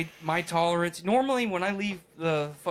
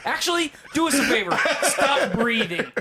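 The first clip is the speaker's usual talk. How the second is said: laughing; 7 semitones higher, 5 dB louder than usual. Real, not acted. Joking insult to cohost.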